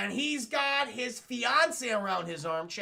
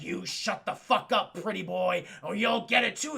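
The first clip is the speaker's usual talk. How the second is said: menacing alter ego; 3 dB louder than usual. Retold or imitated. Big Bad Harv threatens Bruce Wayne.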